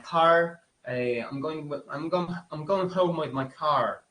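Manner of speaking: hammed-up Southern twang; Southern US accent. Shown as a demonstration. Teacher showing students a Southern US accent, exaggerated. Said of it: "Un poco así tipo sureño".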